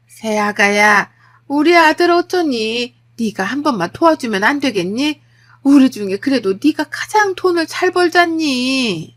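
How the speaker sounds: pleading mother-in-law. Acted. Mother-in-law begging daughter-in-law for money, pleading. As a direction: lean on her with a loud, wheedling appeal. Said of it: "시어머니까지 합세해 저한테 그러더라고요".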